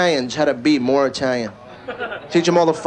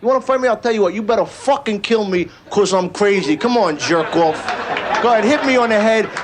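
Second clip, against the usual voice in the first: tough guy; 3 semitones higher than usual. Acted. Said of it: "these are some tough guys".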